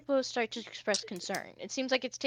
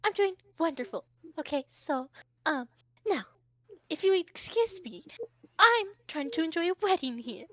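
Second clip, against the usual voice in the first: higher-pitched, lightly voiced prince; haughty Hoshi; 5 semitones higher than usual. Hoshi to the tiger at a wedding, lightly voiced prince. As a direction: politely dismiss an unwelcome guest, pitched up. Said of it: "Hoshi kinda fans himself and goes".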